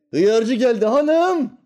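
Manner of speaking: very slow, high, loud street call; cucumber seller's cry. Retold or imitated. Cucumber seller calling housewives, slow high hawker cry. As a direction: drag it out like a vegetable hawker. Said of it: "Hıyarcı bağırır".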